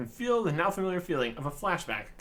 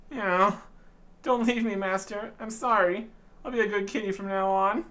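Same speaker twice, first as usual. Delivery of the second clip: higher, louder begging kitty; pleading kitten; 4 semitones higher, 3 dB louder than usual. Acted. Kitten begs master not to leave, in a high pleading voice.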